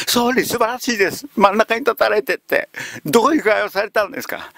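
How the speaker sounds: high, gushing official voice; butter up the boss, pitched high; fawning official. Retold or imitated. Government officials praising the prime minister in a high, gushing voice.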